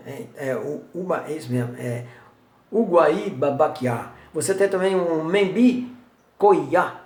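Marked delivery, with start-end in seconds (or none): 2.7-4.1 Uguaí Babaquiá spelled out slowly, each syllable clear; slow careful naming. Shown as a demonstration. Teacher says Uguaí Babaquiá slowly to his class. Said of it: "é o verbo balançar o rabo".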